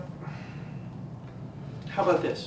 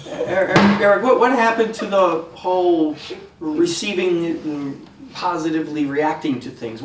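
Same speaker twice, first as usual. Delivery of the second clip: exasperated; 5 dB louder than usual. Acted. Doctor scolds Eric loudly.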